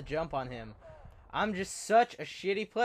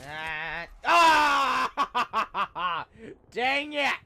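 loud, high laughing shout; laughing yell; 8 semitones higher, 10 dB louder, much slower than usual. Real, not acted. Gamer killed again, laughing and yelling. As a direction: laugh and curse as you die.

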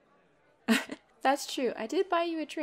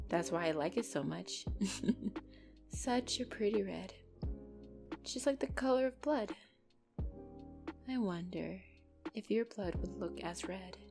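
soft, entranced thinking aloud; hushed, lingering over the thought of blood; musing to oneself; 7 dB quieter than usual. Acted. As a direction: drift into a quiet, fascinated murmur. I was just speaking out loud.

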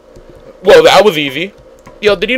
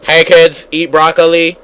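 put-on kids show host voice; cheery host, lightly voiced; Robot Elmo voice. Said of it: "he's Robot Elmo".

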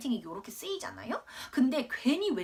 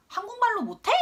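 high, loud bratty demand; throwing a tantrum; 11 semitones higher, 4 dB louder than usual. Retold or imitated. Little girl scolding classmates, loud and bratty. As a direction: snap it like a cross little kid. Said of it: "제가 오히려 승질을 내는 거예요".

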